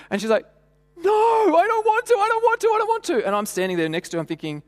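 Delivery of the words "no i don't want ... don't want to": imitating a terrified girl; scared little girl. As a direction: plead like a frightened child. Terrified child on chairs.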